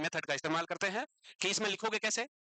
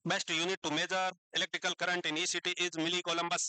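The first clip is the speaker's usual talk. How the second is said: reads the answer out slowly, word by word; slow reading; 2 semitones lower, much slower than usual. Shown as a demonstration. Teacher reading an answer to students, slow and deliberate. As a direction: spell it out slowly for the class.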